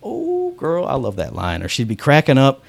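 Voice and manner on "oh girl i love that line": gushing actress. Retold or imitated. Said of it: "she'd just be like".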